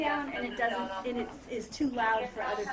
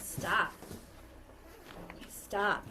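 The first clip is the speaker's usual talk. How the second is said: calm self-talk; 4 semitones lower, much slower than usual. Shown as a demonstration. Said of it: "I need to tell myself".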